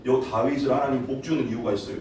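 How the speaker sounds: ordinary talk, nothing marked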